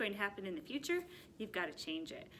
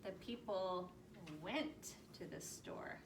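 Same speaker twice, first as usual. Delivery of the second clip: slow whisper, went drawn out; whispered reading; 2 semitones lower, 9 dB quieter, slower than usual. Shown as a demonstration. Teacher whispering the past tense sentence to the class. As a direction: whisper it slowly, stretch went. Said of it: "How about went?".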